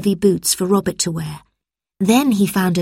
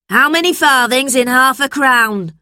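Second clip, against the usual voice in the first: high, demanding question; quizzing teacher; 7 semitones higher, 4 dB louder than usual. A narrator's reading. Teacher tests Robert, high demanding voice. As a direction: put the question high and firmly.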